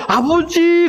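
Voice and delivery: high, hammed-up cry to father; drawn-out mock wail, pretending to weep; fake wailing. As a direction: put on a high tearful call. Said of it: "그러면서 같이 울으려고요".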